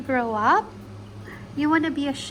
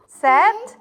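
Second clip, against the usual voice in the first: excited launch call; 5 semitones higher, 8 dB louder than usual. Pretend. Launching toy airplane for toddler.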